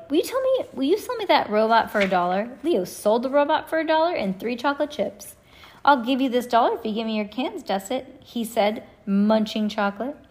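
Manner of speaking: put-on lively storybook read-aloud with kid voices; reading to children. Parent reading Ivy and Bean to kids, animated read-aloud. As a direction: read it to the kids in the car, voicing each character.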